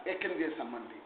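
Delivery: usual speaking voice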